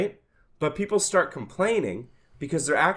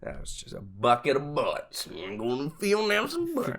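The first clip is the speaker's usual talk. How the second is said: redneck voice; 4 dB quieter than usual. Retold or imitated. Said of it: "most redneck shit I've ever heard".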